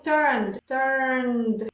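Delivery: "turned" as one syllable, E left silent; "turned" with no vowel before the final D. Shown as a demonstration. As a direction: say "turned" as "turnd", ending on D. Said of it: "la E no se pronuncia".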